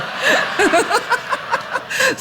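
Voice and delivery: long high-pitched giggling laugh; helpless high cackle; high laughter. Real, not acted. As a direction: burst out laughing at your own joke. Laughing at own joke.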